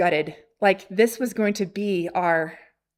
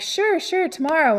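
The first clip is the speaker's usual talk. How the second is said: higher, easygoing yes; eager agreement; 7 semitones higher than usual. Retold or imitated. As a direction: imitate an obliging seller agreeing readily. Acts out seller readily agreeing.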